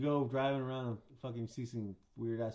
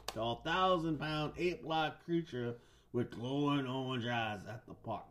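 slow, drawn-out storyteller delivery; story narration. Acted. Host reads monster legend to co-host, storyteller voice. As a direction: open with a big drawn-out flourish.

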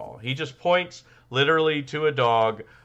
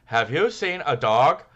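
put-on slightly higher childish voice; kid voice; 5 semitones higher, 4 dB louder than usual. Co-host hears him ask as a kid. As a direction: play the little kid asking. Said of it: "Hey, easy on the voice".

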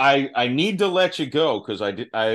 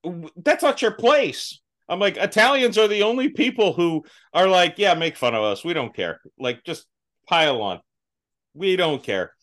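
mock scolding; 4 semitones higher than usual. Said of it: "And I was just like".

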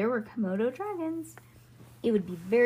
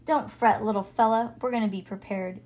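cowboy voice; 5 dB louder than usual. Acted. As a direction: talk like a tough cowboy. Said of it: "You sound like a cowboy".

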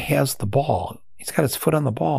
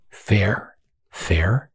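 whispered; 3 semitones lower than usual. Real, not acted. Scoffing repetition of fair.

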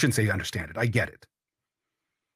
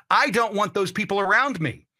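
lightly voiced bigot, pitched a bit higher; imitated racist; 5 semitones higher than usual. Host showing what a racist would say, lightly acted. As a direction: act out a bigot's declaration, slightly raised. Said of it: "a racist would say".

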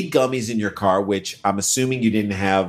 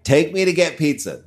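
put-on drunk woman; 6 semitones higher than usual. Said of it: "gotta be the drunkest person".

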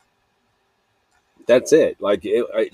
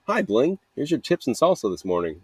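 high chirpy hello; cheerful greeting; 5 semitones higher than usual. Retold or imitated. Cashier greeting a regular, high and chirpy.

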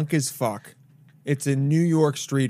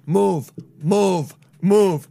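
louder, thick Italian New York cop bark; 3 semitones higher, 5 dB louder, much slower than usual. Retold or imitated. Cop orders drunk man to move, Italian New York accent. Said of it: "he's so fucking Italian".

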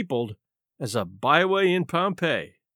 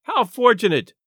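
raised, louder exclamation; crying out; 5 semitones higher, 5 dB louder than usual. A narrator's reading. Tall man delighted to find Murray, crying out. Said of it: "cried the tall man".

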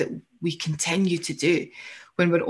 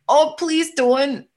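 pleading gut voice; 6 semitones higher, slower than usual. Retold or imitated. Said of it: "but your gut's like".

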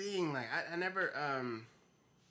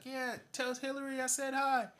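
high, put-on breezy politician voice; mock Bill Clinton; 3 dB louder than usual. Bill Clinton answering fans from his car, high put-on voice. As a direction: toss it off like a charming president.

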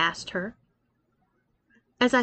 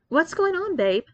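groggy; 7 semitones higher than usual. A narrator's reading. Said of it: "I asked groggily".

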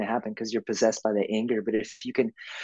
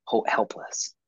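whispered helpless; slower than usual. Retold or imitated. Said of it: "It's like".

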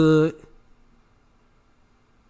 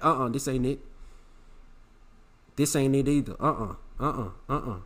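quiet refusal; 3 semitones lower, 6 dB quieter than usual. Retold or imitated. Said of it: "I'm just like".

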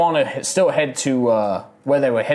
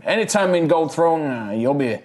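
put-on Texan accent.

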